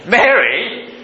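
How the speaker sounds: Mary? lifted high with a rising question; Mary? asked high and rising. Shown as a demonstration. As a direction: call Mary? upward, searching and surprised. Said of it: "it's a different expressions".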